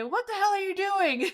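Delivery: retold exasperated demand. Roommate's startled demand retold.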